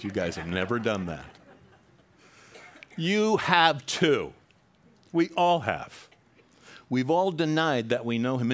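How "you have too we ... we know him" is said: higher, louder, very slow insistence; preacher calling out the congregation, loud and slow; emphatic rebuke. Real, not acted. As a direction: call the congregation out.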